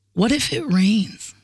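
slow, measured question; retold doubting question. Retelling friend's hurtful question, slow and doubting. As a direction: put it slowly, letting it hang. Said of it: "this is the one that stabbed me".

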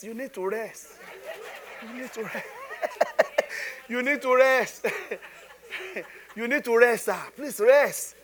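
amused, insistent begging broken by laughs; laughing plea. Retold or imitated. Telling tired pastor he must rest, laughing plea. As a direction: urge him through chuckles.

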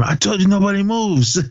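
high-pitched mock yell, little extra volume; mock screaming. Teacher turning on whoever moved, high-pitched mock scream. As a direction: imitate a furious teacher, pitch jumping up. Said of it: "started screaming at him".

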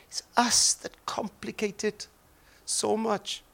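hushed earnest aside; whispering. Real, not acted.

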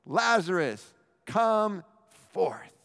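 high, loud call into the tomb; loud cry. Acted. Jesus calling Lazarus from the grave, loud. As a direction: call him out with full force. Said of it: "cries out in a loud voice".

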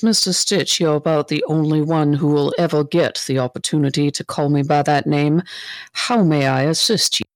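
understated long-suffering patience; weary sigh. Acted. She answers the cat after a heavy sigh, wearily. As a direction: answer with mild, put-upon politeness. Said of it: "sighs heavily".

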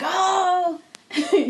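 high, indignant mock whine; upset Jada voice. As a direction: squeal it like an offended wife. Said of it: "And she was like".

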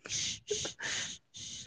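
soft, drawn-out imitated shushes; shushing. Imitating the nurse comforting a patient, soft shushing. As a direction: hush them like soothing a patient. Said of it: "Did she shush you?".

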